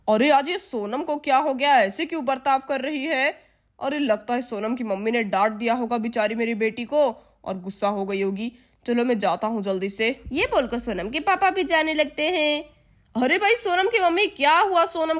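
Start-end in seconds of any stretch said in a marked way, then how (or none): 0.1-10.2 lower-pitched, worried dad; father's voice. Acted. Father wondering why his daughter is upset, low worried voice.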